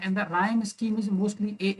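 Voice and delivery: very slow, evenly spaced words; slow dictation. Shown as a demonstration. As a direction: dictate it so students can write. Dictating rhyme scheme.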